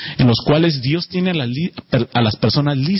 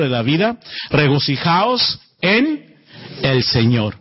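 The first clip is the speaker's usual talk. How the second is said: scripture reading. Acted. Pastor reading Philippians to the congregation, solemn scripture reading. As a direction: lay each phrase out with weight. Reads the Bible passage aloud.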